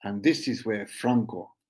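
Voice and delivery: slow recital with long pauses; name each chord separately, letting it hang; poem reading. Acted. Poet calling out chords before Franco comes in, poem reading.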